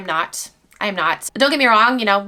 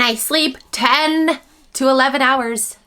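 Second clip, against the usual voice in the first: voicing the baby; 4 semitones higher, slower than usual.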